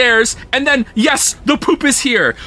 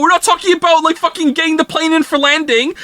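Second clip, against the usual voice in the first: exasperated rant; 5 semitones higher, faster than usual. Real, not acted.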